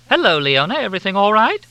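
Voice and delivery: very high, loud effusive greeting; gushing hostess. A narrator's reading. Helena greeting the group with high gushing warmth.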